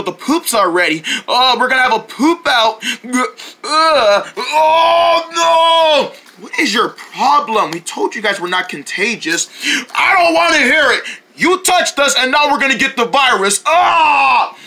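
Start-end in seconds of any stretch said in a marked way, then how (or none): 4.4-14.5 panicked shrieking. Acted. Deerlings shriek as the bugs touch them. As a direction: shriek in terror of germs.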